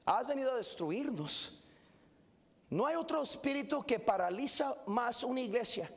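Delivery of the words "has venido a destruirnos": laughing repeat. Shown as a demonstration. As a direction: laugh at the demons' question.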